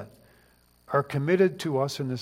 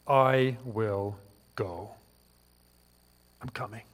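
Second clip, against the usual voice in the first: slow earnest reply; 6 semitones lower, 5 dB quieter than usual. Acted. Preacher voices Elisha's reply.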